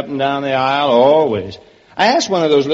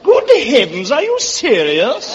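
hammed-up English; 3 semitones higher than usual. Comedian explains his tailor to the hostess, mock-indignant English accent. The comedian acts a shocked Briton.

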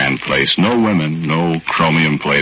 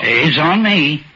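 put-on higher, slow, bashful old fellow's voice; a shy old-timer, grateful and unsure; timid little old man; 12 semitones higher, much slower than usual. Little old man thanking John Smith for the luck, timid and higher.

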